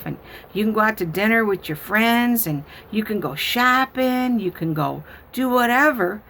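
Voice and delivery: put-on high childlike explanation; explaining little girl. Granddaughter explaining honey cards to grandma, high childlike voice. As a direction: explain it like a know-it-all small child.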